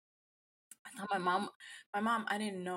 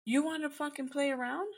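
mock angry mom; 6 semitones higher, 3 dB louder than usual. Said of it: "she's like".

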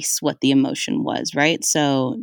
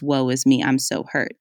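mock self-pity; 3 semitones lower than usual. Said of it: "this negativity is".

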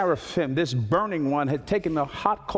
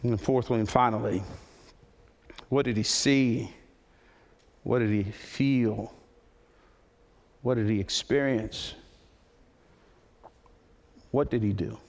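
hushed closing appeal; 5 semitones lower, 4 dB quieter than usual. Acted. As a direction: draw them in gently over the music. Soft closing over music.

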